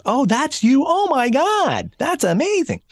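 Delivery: very high, starstruck squeal, mimicked; mock fangirl gushing, way up high; gushing adulation. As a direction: imitate a thrilled fan, stretching the words out. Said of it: "the adulation is wonderful".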